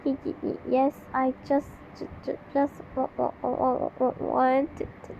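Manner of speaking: stammered, halting syllables; mock stutter. Reading a cringe story, stuttering the girl's line. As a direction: stumble over every start. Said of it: "I stutter".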